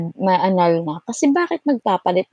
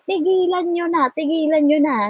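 mock stern demand; 9 semitones higher than usual. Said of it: "Sabi ko".

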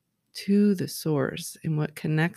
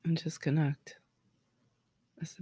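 whisper; 8 dB quieter than usual. Real, not acted. Guided moment with hand on heart.

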